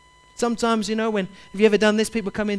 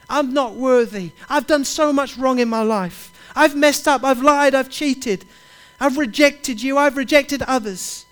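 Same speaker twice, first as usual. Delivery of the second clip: higher and louder, anguished self-accusation; voicing someone who feels unworthy, raised and pleading; pleading confession; 4 semitones higher, 4 dB louder than usual. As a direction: cry out the confession to Jesus.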